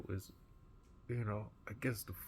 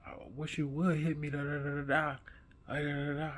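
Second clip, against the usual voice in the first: taunting bully; 5 semitones higher than usual. Retold or imitated. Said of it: "So he's looking up like".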